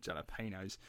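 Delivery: jalapenos with a j and a long "pay" syllable; English mispronunciation. Retold or imitated. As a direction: softly echo jalapenos, stretched to jala-PAY-nose. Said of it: "and they say jalapenos".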